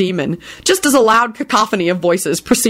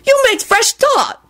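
knowing. Acted. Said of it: "pronounced knowingly".

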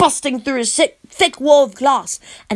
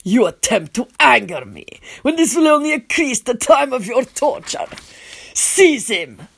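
cold command. A narrator's reading. Vampire prince orders his men.

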